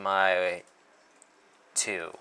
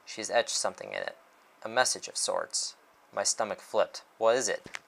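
measured dramatic first-person narration; story narration; 5 dB louder than usual. A narrator's reading. Author reads a detective story aloud, measured narration. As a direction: read it like a detective novel.

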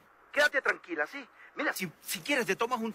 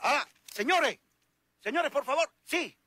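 nervous politeness; 8 semitones higher than usual. Acted. Asking strangers for directions.

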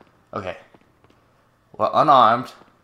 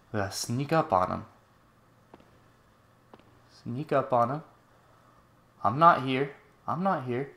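soft, hushed stealthy voice; playful hush while creeping along; sneaking; 6 dB quieter than usual. Pretend. Sneaking past enemies in game.

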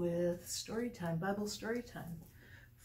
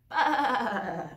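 loud, higher bleating lamb; little lamb calling Bah; 4 semitones higher, 9 dB louder than usual. Acted. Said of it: "said the little lamb".

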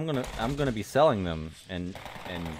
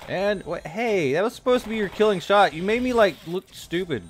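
annoyed yell; 8 semitones higher, 7 dB louder than usual. Real, not acted. Yells at game teammate.

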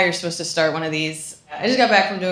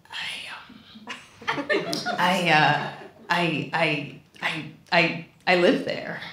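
nervous stammer; 5 dB quieter, much slower than usual. Retold or imitated. Stammering to cop and arrested man.

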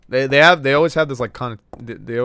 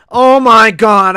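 shocked; 6 dB louder, slower than usual. Real, not acted. Shocked at the room.

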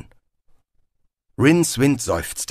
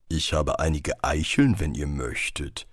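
freundlicher Baum; 6 semitones lower than usual. A narrator's reading. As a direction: offer it kindly in a deep tree voice. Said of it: "sagte der Baum freundlich". (tiefe, freundliche Baumstimme)

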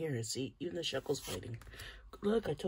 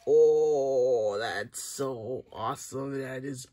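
awed; 9 dB louder, slower than usual. Real, not acted. Awed by the rare card.

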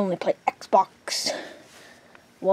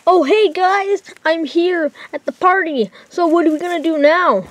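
nervous friend voice; 8 semitones higher, 4 dB louder than usual. Acted. Friend worries on the phone about mom, high nervous voice. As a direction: fret about the mom coming home in a high voice. Morty arrives at party.

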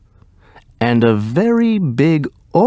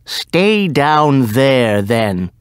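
cried out; slower than usual. Acted. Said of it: "cried the magician".

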